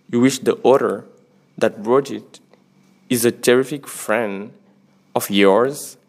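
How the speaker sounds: reading the quote aloud slowly, with weight; a book quote read out slowly and deliberately. Shown as a demonstration. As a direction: let each phrase land, pausing between them. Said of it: "Alors, je relis".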